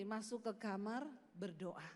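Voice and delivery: a hint of a calm divine command; voice of God. God telling the preacher to go pray, voiced softly. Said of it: "dengar suara Tuhan tuh ngomong gini".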